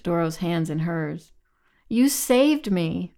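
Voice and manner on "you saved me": high, drawn-out tearful cry; acted weepy voice, high and slow; weeping. A narrator's reading. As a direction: draw it out slowly as if weeping. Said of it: "Doro wept".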